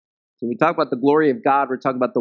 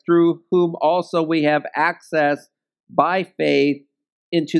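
measured, slowing scripture read; deliberate Bible reading from the pulpit; 2 semitones higher than usual. Acted. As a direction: read the verse aloud to the congregation. Reads the scripture passage.

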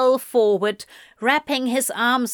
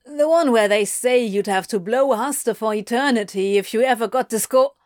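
lightly voiced Anthony, blurting it out; helpfully blurting; 3 dB louder, faster than usual. A narrator's reading. Anthony supplying the letter's contents, helpfully blurting. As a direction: jump in with an unasked-for answer. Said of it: "Anthony supplied helpfully".

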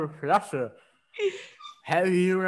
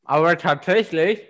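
talking around a cork in mouth. Real, not acted. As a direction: speak with a cork between the teeth. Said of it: "der ist jetzt so voll gesauert, der Korken".

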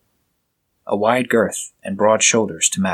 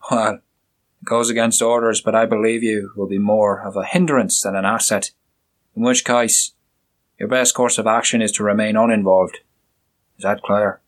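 the inspector, curt and scornful; stern inspector. Acted. Inspector giving orders.

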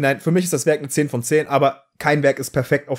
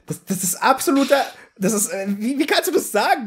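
indignant disbelief; 7 semitones higher than usual. Real, not acted. Outraged at a fan's claim.

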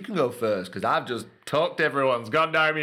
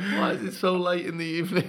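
silly put-on voice; 6 semitones higher than usual.

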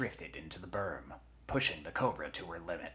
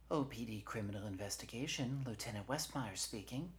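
higher-pitched official greeting; lieutenant answering phone; 5 semitones higher, 4 dB quieter than usual. Acted. Police lieutenant answers a call, brisk official manner. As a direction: answer the line by rote, pitch raised.

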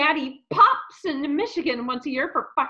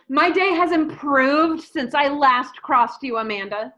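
laughing gloat; 4 dB louder than usual. Acted.

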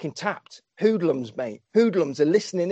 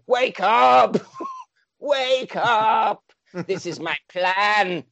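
villain command; 4 semitones higher, much slower than usual. Acted. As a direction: bark at the sleeper to wake. Villain commanding sleeping Charlotte.

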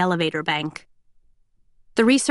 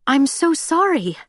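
sympathetic; 7 semitones higher than usual. A narrator's reading. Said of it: "all sympathy".

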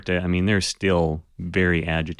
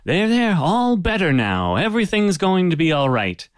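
a small man's voice pitched much higher, soothing and calm; strangely calm; 10 semitones higher, 4 dB louder than usual. Acted. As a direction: hush the wounded pirate like a patient healer, up high. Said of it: "his voice is strangely calm".

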